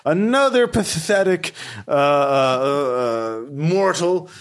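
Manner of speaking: lightly voiced giant skeleton, haughty; a hint of a scornful undead guardian.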